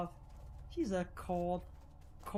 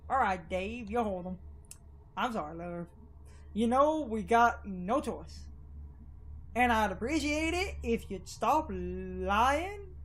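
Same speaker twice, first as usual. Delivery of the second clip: light Southern drawl for the townsfolk. Acted. Townsfolk cornering Lerv, in a light Southern drawl. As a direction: lean a little into a Southern accent. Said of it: "I love doing Southern drawl".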